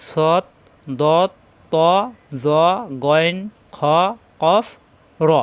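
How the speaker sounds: each letter heavy with a rounded o, like 'ত', said separately; thick heavy letters. Shown as a demonstration. Teacher listing the heavy letters for learners, thick and separate. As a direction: recite 'সৎ', 'দত', 'ত' thick, one by one. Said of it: "এখানে মোটা হরফ".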